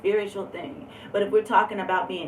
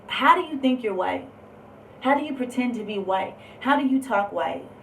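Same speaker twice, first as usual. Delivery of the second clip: higher-pitched mock challenge; retold needling, pitched up; imitating taunts; 4 semitones higher than usual. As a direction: mimic people poking fun with pointed questions. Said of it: "People were poking at me".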